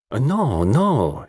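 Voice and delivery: amused, swooping denial; laughing protest. Acted. Lola contradicting the modest detective, laughingly. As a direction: lilt each no playfully. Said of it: "she laughed".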